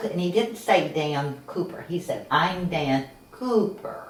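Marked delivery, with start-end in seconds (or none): 2.3-4.1 very slow, each word deliberately stretched out. Retelling how a man introduced himself by name, said really slow. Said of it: "She said it really slow like".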